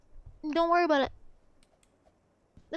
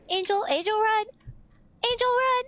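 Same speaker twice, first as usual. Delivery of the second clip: urgent shout; 5 semitones higher than usual. Real, not acted. Monster chasing friend, calling out.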